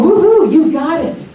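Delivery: cheering. Retold or imitated. Abraham, Esther and Jerry cheering a manifester, excited whoop. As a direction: whoop it up like the teachers cheering you on. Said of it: "they'd be going".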